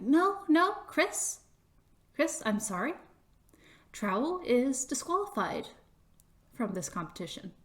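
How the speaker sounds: gently firm, lightly voiced official; regretful official. Official disqualifies Trowel, mildly regretful and firm.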